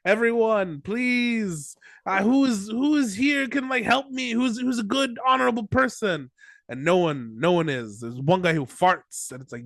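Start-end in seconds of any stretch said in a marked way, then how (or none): 0.0-6.3 pleading speech. Retold or imitated. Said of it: "he's like".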